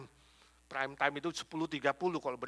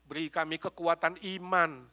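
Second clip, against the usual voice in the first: pastor leading the congregation in prayer before communion. Acted. Pastor leads closing prayer.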